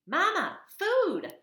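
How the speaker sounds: very high, loud squeaky begging; tiny baby bird crying for food; hungry gosling peep. Acted. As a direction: squeak for food like a starving chick.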